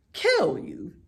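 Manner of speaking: sharp high echo. A narrator's reading. Old sheep echoes Wilbur, high and loud. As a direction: fling the words back high.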